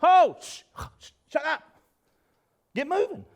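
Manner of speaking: high, hushing, exasperated rebuke; comic impatient scolding, pitched high; impatient God. Retold or imitated. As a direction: cut them off with a shushing outburst. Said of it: "He's like".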